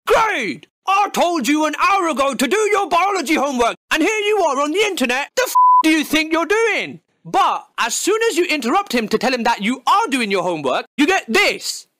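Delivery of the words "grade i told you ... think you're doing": angry dad rant. Pretend. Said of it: "your dad will storm in your room talking about".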